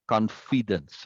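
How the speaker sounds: "confidence" pronounced deliberately, syllables set apart; over-articulate the stresses in "confidence"; exaggerated syllable stress. Shown as a demonstration. Teacher demonstrating syllable emphasis, exaggerated "confidence". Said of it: "I'm exaggerating".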